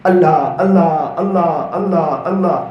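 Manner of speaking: low "Allah" repeated, each falling and fading; prayerful calling. Shown as a demonstration. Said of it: "میری دعا کے اندر میں اکثر". (دعا میں "اللہ" کی دھیمی ہوتی پکار)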